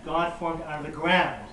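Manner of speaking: slow phrase landing on "ground"; stress on ground. Shown as a demonstration. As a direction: lean on "ground" as the key word. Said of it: "ground is emphasized again".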